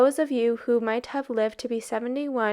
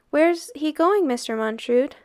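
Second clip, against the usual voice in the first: anxious call; 4 semitones higher than usual. Acted. Boys anxiously asking Montrud.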